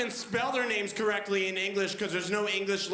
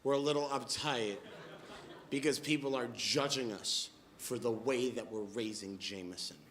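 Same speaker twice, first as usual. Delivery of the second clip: mildly apologetic, dropping lower and softer; 5 semitones lower, 4 dB quieter than usual. Retold or imitated. Mother apologizing to a guest for being uptight, mildly apologetic. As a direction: imitate a sheepish apology, trailing down. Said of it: "she looks a little apologetic".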